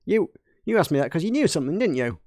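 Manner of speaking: shaky attempt at an Australian accent. Mechanic challenging why he was asked, Australian accent. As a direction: press them in a put-on Aussie twang. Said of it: "are we coming to Australia now?".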